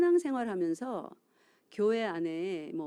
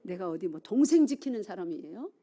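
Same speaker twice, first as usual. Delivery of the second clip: louder, a sullen talk-back; defiant retort; 5 dB louder than usual. Retold or imitated. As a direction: answer God back like a sulky teen. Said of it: "그 뭐라고 말합니까?".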